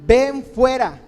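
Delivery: calling out loud and high to the dead man; a commanding shout into the tomb. A narrator's reading. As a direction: summon him out of the tomb at full voice. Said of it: "clamó a gran voz".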